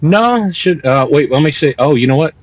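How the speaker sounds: thin, distant headphone-mic sound; talking through headphones used as a mic. Real, not acted. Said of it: "I'm using my headphones as a mic".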